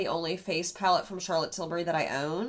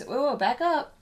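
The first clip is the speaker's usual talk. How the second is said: playful yell; 6 semitones higher, 7 dB louder than usual. Real, not acted. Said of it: "don't yell at me".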